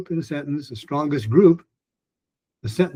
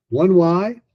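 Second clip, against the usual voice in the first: "one Y" raised in pitch and rising; a little higher; 5 semitones higher, 3 dB louder than usual. Shown as a demonstration. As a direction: lift "one Y" up a bit higher. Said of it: "a little bit higher".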